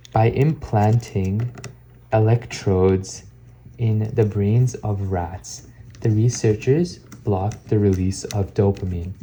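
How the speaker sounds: very slow, deliberate book reading; careful read-aloud. Acted. Vlogger reading about a rat experiment for speech practice, slow careful read-aloud. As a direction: articulate slowly, pausing between phrases.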